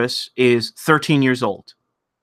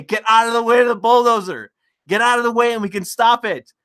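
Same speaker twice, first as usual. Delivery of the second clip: fast, pressing plea to move aside; urgent pleading; 6 semitones higher, faster than usual. Retold or imitated. Urging the security guard to move, fast and pressing. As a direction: hurry him out of the bulldozer's path.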